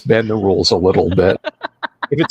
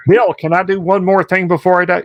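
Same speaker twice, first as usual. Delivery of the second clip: dying man; 8 semitones higher than usual. Retold or imitated. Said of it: "I could see him lying there, gut shot".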